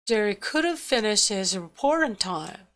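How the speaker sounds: beats on "Jerry", "finish", "report", "time", "couldn't" squeezed short; stress on content words. Shown as a demonstration. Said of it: "내용어와 기능어를 구별해서 강약을 주어서". ("couldn't"는 축약하고 "Jerry", "finish", "report", "time"에 강세)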